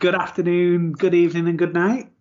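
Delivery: Jim Carrey impression; cheery American Truman sign-off; American accent. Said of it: "witnessed Matthew's accent".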